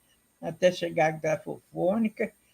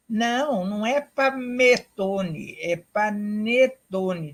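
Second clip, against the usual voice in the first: put-on a child correcting; 4 dB louder, slower than usual. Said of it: "diz uma criança".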